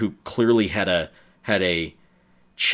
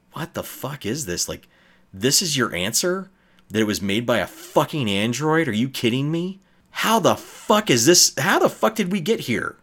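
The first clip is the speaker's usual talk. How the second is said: whispered outrage; 4 semitones higher than usual. Retold or imitated. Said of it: "I could hear people whispering".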